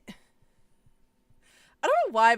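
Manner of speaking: slow stretched voice; drawn out. Pretend. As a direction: stretch every word. Drawn out odd voice.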